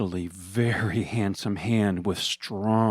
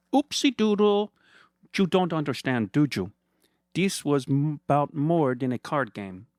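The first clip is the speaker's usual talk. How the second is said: high, sugary mock-friendly villain voice; a much higher sneering voice, sweetly condescending; smug villain Fernando; 4 semitones higher than usual. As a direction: purr at him like a gloating rich villain. Fernando gloats.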